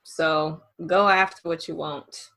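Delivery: low, slow sultry delivery; slow it down and make it sultry. Real, not acted. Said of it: "how she got that little sultry voice".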